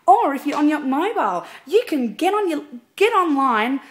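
high, loud, chirpy saleswoman pitch; sales lady. Acted. Singer playing Sharon from Mosh Tix selling tickets, bright sales voice. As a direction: sell the tickets like a cheery Avon lady. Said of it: "be like a sales lady".

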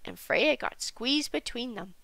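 usual speaking voice

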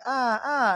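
high, mild mock cries; mock yelling. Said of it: "I was like yelling".

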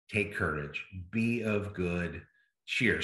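soft, low and unhurried, as Jesus gently comforting his friends; tender reassurance. Acted. Jesus telling the apostles before his death, softly and tenderly. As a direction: ease the words out quietly, like a farewell comfort.

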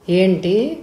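a startled, rising what; surprised. Acted. Father startled by Prasad's marriage offer, surprised. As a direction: caught off guard, he blurts it out. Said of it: "ఆయన ఆశ్చర్యపోయాడు".

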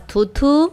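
spoken mock spitting, twice; spitting sound. Shown as a demonstration. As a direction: lightly imitate spitting. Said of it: "થૂંકવાનો અવાજ". (થૂંકવાની હળવી નકલ)

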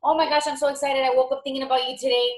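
high, quick eager gush; excited. Shown as a demonstration. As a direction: bubble over with excitement. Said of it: "It's all about energy".

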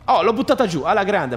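triumphant little whoop; excited cheer. Real, not acted. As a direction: cheer the door coming down. Door breaks, cheering.

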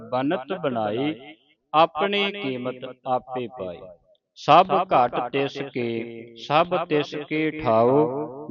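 measured reading with drawn-out line endings; scripture recitation. Shown as a demonstration. Teacher models Gurbani for learners, measured recitation. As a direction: recite sacred verse phrase by phrase.

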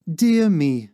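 high, loud, drawn-out dismay; daintily sighing landlady. A narrator's reading. Landlady amazed at time passing, sighing daintily. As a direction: sigh it out as a genteel landlady. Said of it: "heaving a dainty little sigh".

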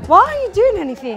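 mock scolding question. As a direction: snap it at her quickly. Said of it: "be like".

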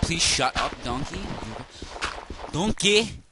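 loud, bad ogre impersonation; hammed-up cartoon ogre shout; Shrek. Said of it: "the worst Shrek impersonation ever".

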